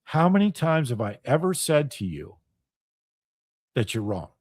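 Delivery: low-pitched, controlled questioning; calm. Retold or imitated. Reminding a friend of thirty-five years of warnings, calmly. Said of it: "very calmly said".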